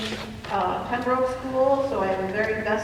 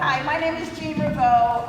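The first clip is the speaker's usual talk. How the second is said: teacher voice; 4 semitones higher than usual. Real, not acted. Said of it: "if I use my teacher voice".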